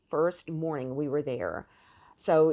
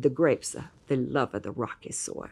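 put-on Italian accent; 4 semitones lower than usual. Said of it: "very thick accent".

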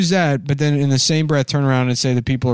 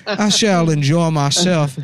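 Southern dandy voice; 2 semitones higher than usual. Retold or imitated. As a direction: savor it through giggles, slowly. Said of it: "My cool Southern dandy voice".

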